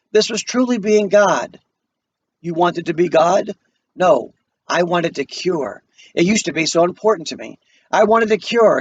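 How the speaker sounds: reading the script to the class, lightly voicing the parts; calm dramatic play reading; play read aloud. Teacher reading the play to her class, steady dramatic reading.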